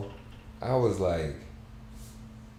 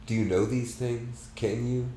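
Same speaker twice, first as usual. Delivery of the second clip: pleading voice; 6 semitones higher than usual. Acted. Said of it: "his voice broke into a sob".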